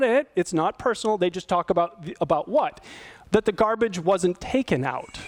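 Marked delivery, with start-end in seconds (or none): 3.3-5.2 calm factual statement. Shown as a demonstration. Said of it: "Do you hear the difference".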